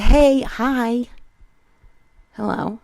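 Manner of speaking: mock white-guy voice; hammed-up polite white guy greeting; a hint of a nerdy white guy saying hi; white-guy impression voice. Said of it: "I sound like the white voice people do".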